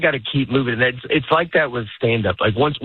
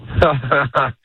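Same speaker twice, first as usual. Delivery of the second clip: fake laugh; 2 semitones higher than usual. Shown as a demonstration. Comedian gives the host his fake laugh on request. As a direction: laugh on cue to show the fake. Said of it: "You already heard it earlier".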